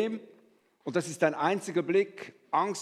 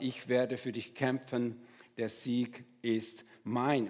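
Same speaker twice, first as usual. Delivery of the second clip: calm promise; 4 semitones lower, 4 dB quieter, slower than usual. Acted. God's promise voiced in sermon.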